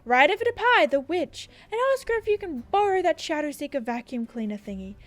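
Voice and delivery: lightly voiced theatrical official; earnest councilman. Councilman sending Cassandra to hurry, earnest and mildly dramatic. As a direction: urge the hero on, settling into solemn hope.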